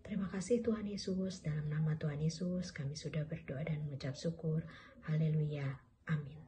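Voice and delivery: prayer. Real, not acted. Leads a prayer for children.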